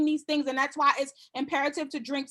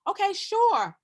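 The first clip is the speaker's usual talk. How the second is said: friendly consultant. Shown as a demonstration. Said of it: "every single person who comes to me".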